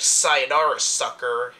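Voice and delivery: mock-cocky one-liner, punched at the start; cocky pilot. Quoting the cocky pilot's funny line, mock swagger. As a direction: toss off a cheesy taunt, cockily. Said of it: "when he's like".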